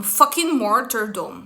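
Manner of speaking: ordinary talk, nothing marked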